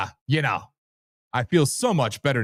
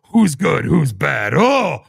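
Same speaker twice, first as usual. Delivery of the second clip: louder, squealing mock gossip; mock gossip crowd; 2 semitones higher, 6 dB louder, slower than usual. Host mocking online crowd with loud catty squeals. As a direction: sneer at them like a catty crowd.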